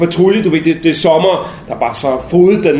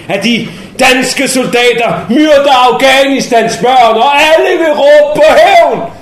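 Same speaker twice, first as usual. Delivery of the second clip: building from firm to a loud, higher cry for revenge; fervent rising cry; 8 semitones higher, 5 dB louder, slower than usual. Acted. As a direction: whip the crowd up, climbing to a shout. Taliban rallying cry rising. (stigende, højere og højere råb om hævn)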